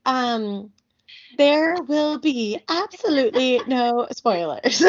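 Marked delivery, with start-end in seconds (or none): 1.4-4.8 higher, slow mock announcer; hammed-up announcer imitation. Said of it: "She's like".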